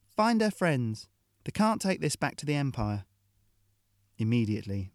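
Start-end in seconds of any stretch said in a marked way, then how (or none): 0.1-3.1 sneering order. Acted. Hill ordering her crew to hunt the friends, sneering. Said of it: "then sneered".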